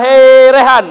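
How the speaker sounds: sharp, commanding summons; loud, unwavering reply; firm call. Shown as a demonstration. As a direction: call the name out firmly and loud. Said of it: "jawablah dengan tegas".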